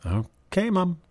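put-on kid's reluctant "okay", sliding way up on Mom; whiny kid reply. A daughter yielding to her mother, mildly whiny.

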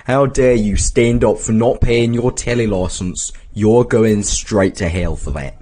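mildly mock-outraged scolding; a touch of preachy outrage; indignant Jesus. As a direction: scold with put-on righteous indignation. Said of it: "he's like".

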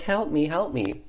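play-acted plea for rescue; mock cry for help. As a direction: call out like a fake damsel. Fake damsel calling for rescue.

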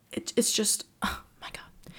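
hushed, voiceless awe; breathless whisper. Real, not acted. Fan whispers in awe about the K-12 movie. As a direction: whisper it, overwhelmed.

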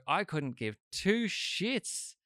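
drawn-out, high-pitched dismissal; emphatic indifference. Retold or imitated. Shrugging off the royal visit to a friend, exaggerated indifference. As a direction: stretch it out high, proudly not caring. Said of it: "And I go".

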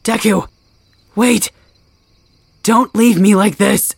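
high, loud anguished yell; loud, slow, anguished pleading cry; desperate shout. Acted. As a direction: scream after him as he vanishes. Screaming after vanishing ghost.

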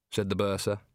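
usual speaking voice

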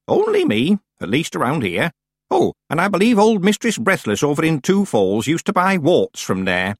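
put-on chatty old-witch voice; old witch, gossipy. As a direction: gossip about a fellow witch. Plays Miss Treason.

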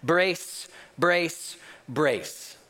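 evenly spaced repeated call, falling on the last; acted monotone cabin-crew command; almost monotonous. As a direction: chant it like a drilled, repetitive order. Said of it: "almost monotonous".

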